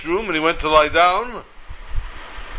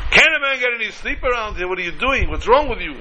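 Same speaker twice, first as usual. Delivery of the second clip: higher-pitched opening, grumbling complaint; acted indignation of someone woken up; mock exasperation; 6 semitones higher than usual. Rabbi woken by third knock to his hosts, mildly exasperated.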